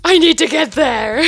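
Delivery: loud, high desperate cry; panicked outburst. Retold or imitated. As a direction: blurt it out in a panic. Lost, panicking, running late.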